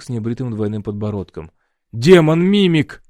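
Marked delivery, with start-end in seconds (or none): 1.9-3.0 slow, louder cry of alarm; guard cries out about the demon, alarmed. A narrator's reading. Guards panic at mimic.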